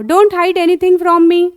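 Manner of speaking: slow, clear, drawn-out English model phrase; slow teaching model. Shown as a demonstration. Teacher slowly modelling phrase for a child. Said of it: "कुछ मत छुपाओ".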